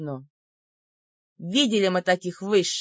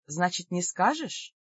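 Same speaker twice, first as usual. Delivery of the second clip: menacing; 4 dB quieter, slower than usual. Acted. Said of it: "недобро прищурилась я".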